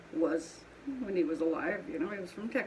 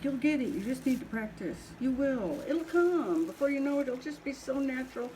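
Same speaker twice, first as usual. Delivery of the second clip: lightly mocked pep talk, pitched higher; imitating encouragers; 5 semitones higher than usual. Potter quoting people who urge her to practice, imitated encouragement. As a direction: imitate well-meaning advice in a higher, breezy run. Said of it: "they're like".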